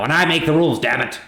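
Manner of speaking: hammed-up lord laying down the law; mock blustering. Martin the lord insisting to his guests, mock bluster. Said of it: "And then Martin goes".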